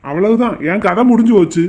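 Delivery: loud groan of defeat; doomed lament. Acted. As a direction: bemoan your fate out loud. Groom declares his life is over. (கதை முடிந்ததென்ற புலம்பல்)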